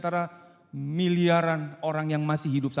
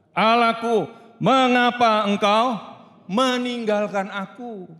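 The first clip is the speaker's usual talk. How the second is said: loud, slow cry of abandonment; anguished cry; 6 semitones higher, 5 dB louder, slower than usual. Acted. Jesus on the cross crying out, loud and slow. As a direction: call out slowly, forsaken. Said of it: "Tuhan Yesus sendiri berteriak".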